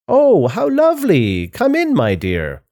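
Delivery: high, gushing welcome dropping at the end; high fake grandma voice. A narrator's reading. Wolf posing as grandma invites the girl in, in a high voice. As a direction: swoop from falsetto delight down to the dear. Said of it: "he calls in a high voice".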